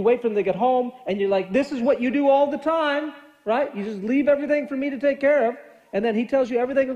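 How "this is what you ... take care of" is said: mild mock accusing complaint, pitched higher. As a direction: complain like a fed-up spouse, lightly acted. Acting out an accusing spouse.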